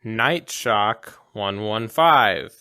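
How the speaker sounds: each digit slow and even; slow spoken passcode. Pretend. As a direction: slowly say the code aloud. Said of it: "He spoke it into the receiver".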